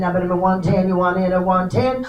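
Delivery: rapid rhythmic auction chant; auctioneer. Real, not acted. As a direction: rattle off the bids like an auctioneer. Live auction bid calling.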